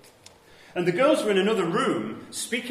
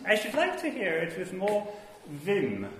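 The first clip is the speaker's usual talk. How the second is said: grand actress voice; 3 semitones higher, 4 dB quieter than usual. Retold or imitated. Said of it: "I think she said".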